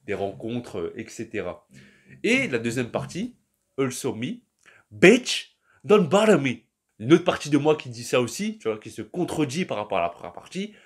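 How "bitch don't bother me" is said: loud, higher, sassy brush-off of the meme. Pretend. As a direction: fling it out high and loud like a diva. Reading the meme's sassy retort.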